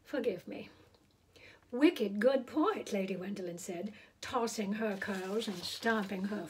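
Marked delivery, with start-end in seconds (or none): 1.7-2.9 sassy retort. Acted. Lady stamping her foot.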